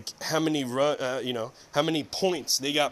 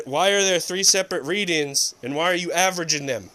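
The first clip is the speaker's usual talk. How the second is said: angry quote; 3 dB louder than usual. Retold or imitated.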